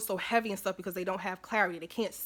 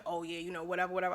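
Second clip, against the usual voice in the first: dismissive alter ego; 3 semitones lower, 5 dB quieter, faster than usual. Pretend. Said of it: "that's how my alter ego be thinking".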